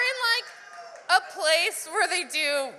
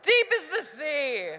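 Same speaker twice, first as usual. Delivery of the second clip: a hint of a self-serious poet, slow on the line; mock-profound, a little slow; dramatic poet; slower than usual. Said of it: "Leaning against the wall dramatically".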